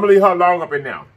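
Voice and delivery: talking with a mouthful; words round a bite of crab; mouth full. Real, not acted. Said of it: "'Cause I'm getting shell all in my mouth".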